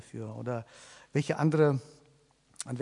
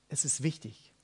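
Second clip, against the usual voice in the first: whispered; 7 dB quieter than usual. Shown as a demonstration. Preacher repeating to the congregation, now whispered. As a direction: drop to a whisper for the key point.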